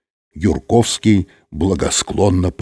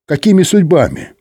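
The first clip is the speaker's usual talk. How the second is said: creaky voice; 8 semitones higher, 4 dB louder than usual. A narrator's reading. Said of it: "проскрипел директор".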